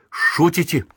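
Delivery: high-pitched, incredulous question; disbelieving question. A narrator's reading. Sergeant not believing the prisoner's answer, incredulous question. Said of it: "Вахмистр не поверил".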